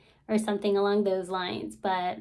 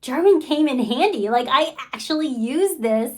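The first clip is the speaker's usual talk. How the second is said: excited son; 2 semitones higher, 5 dB louder than usual. Retold or imitated. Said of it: "'Cause he's like".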